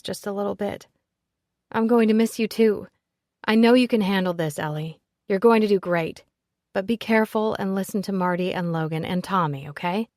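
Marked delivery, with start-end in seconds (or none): 1.7-10.1 louder heartfelt farewell. Acted. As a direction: say goodbye, fond and earnest. Heartfelt goodbye to Ellie.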